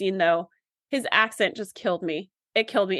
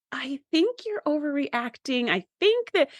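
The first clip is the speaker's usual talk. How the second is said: slow, carefully tactful objection; nicest way possible; 3 semitones higher, slower than usual. Retold or imitated. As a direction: break it to them gently, dragging it out. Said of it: "in the nicest way possible".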